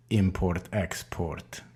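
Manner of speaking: put-on deadpan Russian-accented "import, export". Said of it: "you tell them in a Russian accent".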